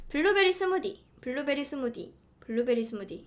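블루베리 스무디 in a falling Seoul tune; Seoul accent. Shown as a demonstration. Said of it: "이게 서울 말이고".

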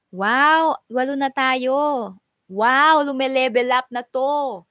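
thrilled at the rising viewer count; real happy surprise; excited. Real, not acted.

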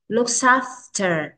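"Looks after" slow, the s joined to "after"; linked sounds. Shown as a demonstration. Teacher shows children linking, "Looks after" slowly joined as "look-safter". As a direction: carry the end of "Looks after" across the words. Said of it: "Các con có thể đọc nối âm qua".

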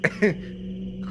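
quick breathy chuckle; short real laugh. Real, not acted. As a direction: let out a brief amused laugh. Amused by own creepy character.

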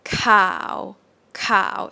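"cow" starting low and sinking. Shown as a demonstration. Teacher models the Thai low tone, sinking "cow". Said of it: "low tone".

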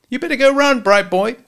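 high, loud tough-guy voice; a hint of a cocky hitman; menacing gangster. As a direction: sneer it down at the kid like a hood. Gangster Al threatens Nick.

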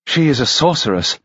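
gentlewoman voice. Acted. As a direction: voice the gossiping gentlewoman.

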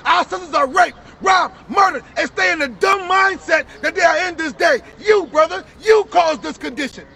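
indignant preacher's rebuke; street preaching. Real, not acted. Preacher rebuking a laughing brother, forceful preaching. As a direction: call out the scoffer forcefully.

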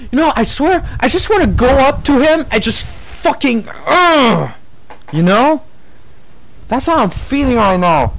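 heated angry rant; raging gamer. Real, not acted. Ranting angrily about a YouTuber.

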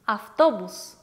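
автобус said slowly and clearly as afftobus; Russian word demo. Shown as a demonstration. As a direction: model the word автобус for learners. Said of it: "the example is автобус".

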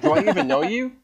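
high-pitched imitation of a puzzled stranger; baffled questioning. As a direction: question them in mock bewilderment, high. Retold puzzled reply to awkward introduction.

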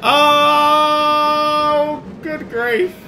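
fast, loud, laughing panic; helpless laughter. Real, not acted. Player losing control on the ride, laughing hard. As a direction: laugh through the words, losing it.

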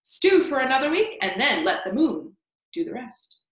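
put-on loud, excited old man reciting a recipe; crying out. A narrator's reading. Old man waving his stick at James, loud excited recital. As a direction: rattle off the grisly ingredients with relish. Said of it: "he cried".

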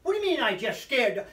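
rattled. Retold or imitated. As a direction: fire it back quickly, imitating agitation. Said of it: "here's how rattled he is".

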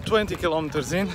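while running. Real, not acted. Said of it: "I'm getting a bit out of breath".

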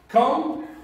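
Com-pu-ter split into three beats; syllable by syllable. Shown as a demonstration. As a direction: tap out Com-pu-ter one syllable at a time. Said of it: "a word having three syllables".

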